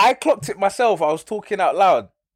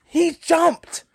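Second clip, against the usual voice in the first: hammed-up dub voice; 9 semitones higher, slower than usual. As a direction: ham it up like a bad dub. Mocking the English dub acting.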